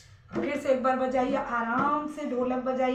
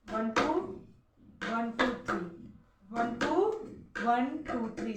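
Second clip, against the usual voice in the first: counting in time. Shown as a demonstration. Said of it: "जब आपने ऐसे किया".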